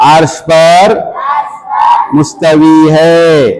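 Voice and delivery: slow, called-out recitation of the answer; loud answer. Shown as a demonstration. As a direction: lead the class in shouting it. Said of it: "जोर से जवाब दो".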